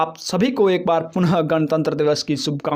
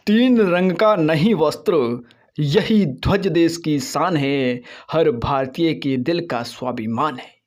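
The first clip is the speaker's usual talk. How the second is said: poem recitation. Acted. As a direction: recite it like a proud anthem.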